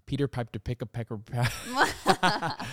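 slow tongue twister breaking into laughter; laughing tongue twister. Shown as a demonstration. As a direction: stumble through it, laughing. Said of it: "It's, like, a tongue twister".

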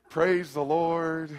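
slow, sugary smiling voice; fake sweet smile. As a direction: smile through the anger. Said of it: "on the outside smiling".

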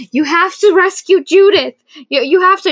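high, loud mock-tearful plea; hammed-up sobbing begging; pleading while crying. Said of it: "And Corona's crying".

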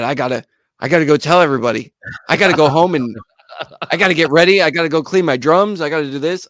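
frantic. Retold or imitated. Retold drummer listing chores in panic.

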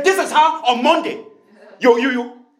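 high, loud mock nagging; accusing attitude. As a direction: imitate someone digging up an old grievance. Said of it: "that same tone and that same attitude".

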